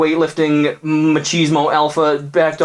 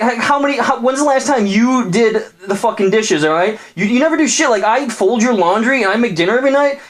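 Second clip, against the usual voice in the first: very high, shrill mock outrage; hammed-up indignant girlfriend, much higher; outraged girlfriend; 8 semitones higher than usual. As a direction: throw it back at him, way up high. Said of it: "She's like".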